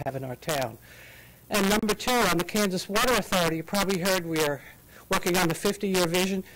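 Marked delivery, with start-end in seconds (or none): 1.5-6.4 winded, talking through it; out of breath. Real, not acted. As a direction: still a bit breathless. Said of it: "I'm still out of breath".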